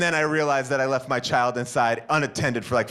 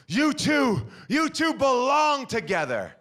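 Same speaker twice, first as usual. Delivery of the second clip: high parting jab; 8 semitones higher than usual. Retold or imitated. Man shouts parting jab.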